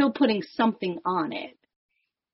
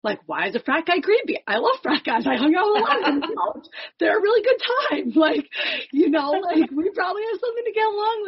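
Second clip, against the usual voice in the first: frat bro; 11 semitones higher, 4 dB louder, faster than usual. Pretend. Mock frat guy defending frat guys.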